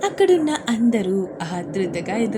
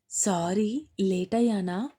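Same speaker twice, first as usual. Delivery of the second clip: confused. Acted. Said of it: "అయోమయంగా చూస్తూ అడిగింది".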